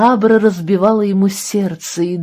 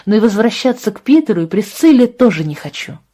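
put-on girl's raised, insistent protest; upset protest; 4 semitones higher, 5 dB louder than usual. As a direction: push back, stressing Питеру. Абра называет приёмных родителей. (обиженный протест, ударение на «Питеру»)

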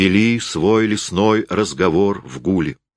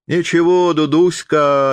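approving purr; 9 semitones higher, 3 dB louder than usual. A narrator's reading. Karasyov coaxing wet Zoyka along, purring approvingly. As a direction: coax her gently, purring. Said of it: "одобрительно замурлыкал он".

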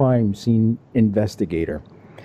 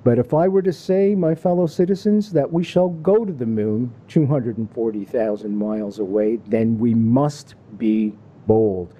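quoting Kennedy speech. Retold or imitated. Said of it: "he thundered in a speech".

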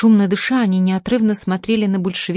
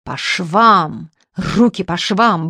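roar; much slower than usual. Acted. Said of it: "взревел полковник".

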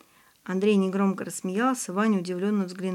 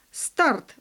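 higher-pitched exclamation; exclaimed; 6 semitones higher, 3 dB louder than usual. A narrator's reading. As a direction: call out the start signal. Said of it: "воскликнул Виктор Викторович". (восклицая, повыше)

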